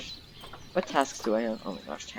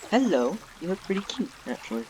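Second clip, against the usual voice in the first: cooing at a bear; 7 semitones higher than usual. Real, not acted. Talking to the polar bear.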